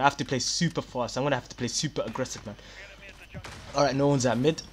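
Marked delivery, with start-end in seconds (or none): 3.7-4.6 slightly hoarse, strained voice; losing voice. Real, not acted. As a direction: voice starting to go. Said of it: "I'm starting to lose my voice".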